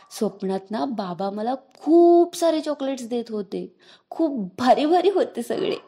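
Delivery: eyes shining. Acted. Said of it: "डोळ्यात चमक आणत बोलत होता".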